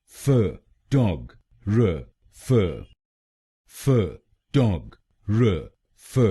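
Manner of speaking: फ, टॉग, र, फ spoken slowly, one syllable at a time; slow syllable drill. Shown as a demonstration. Teacher drilling the students, syllable by syllable, slowly. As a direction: break the word into slow, separate beats. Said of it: "slow syllable-by-syllable drill".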